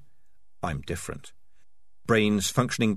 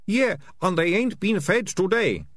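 high gleeful jeer; delighted thug; 10 semitones higher than usual. A narrator's reading. Ratcatcher Two gloating over the hungry rats, high and delighted. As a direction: relish the threat. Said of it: "said a delighted Ratcatcher too".

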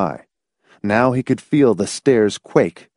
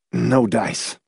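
understated, emotionless character voice; dispassionate. A narrator's reading. Laws giving up on reaching Hamilton, dispassionate. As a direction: say it with no feeling at all. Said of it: "Laws said dispassionately".

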